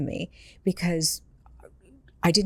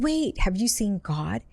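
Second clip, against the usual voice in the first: higher, slow urgent wait; urgent plea; 4 semitones higher, slower than usual. Retold or imitated. Sister pleading with departing brother, higher urgent. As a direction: call him back before he goes. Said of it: "I said".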